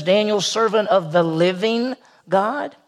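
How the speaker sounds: slow, deliberate quote leaning on "living"; calling out. Acted. Preacher requoting the king's call, slow and pointed. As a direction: stretch out "living God" slowly, rising at the end. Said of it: "the king calls out and says".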